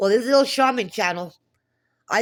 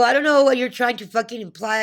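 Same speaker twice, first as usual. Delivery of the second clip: louder, higher indignant snap at the bank clerk; retold angry retort; 4 semitones higher, 5 dB louder than usual. Retelling the call to the bank, an indignant outburst. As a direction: fire it back as if still offended. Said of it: "I go".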